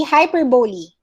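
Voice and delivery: "hyperbole" as hy-PER-bo-lee; correct pronunciation. Shown as a demonstration. Teacher repeating the correct form, hy-per-bo-lee. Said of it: "it's hyperbole".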